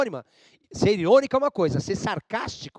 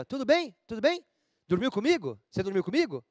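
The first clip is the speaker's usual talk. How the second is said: ironic teasing; 3 semitones higher than usual. Retold or imitated. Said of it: "eu tô sendo irônico".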